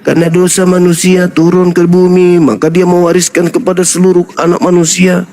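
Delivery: even-toned radio play delivery; radio drama narration. Acted. Preacher parodying doctrine as radio theatre, dramatized narration. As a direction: recite like a radio serial narrator. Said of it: "sandiwara-sandiwara radio kayak begitu".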